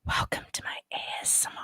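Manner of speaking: soft, fast whisper; mocking YouTuber whisper; mock ASMR whisper. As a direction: whisper it like a parody ASMR intro. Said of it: "she speaks like".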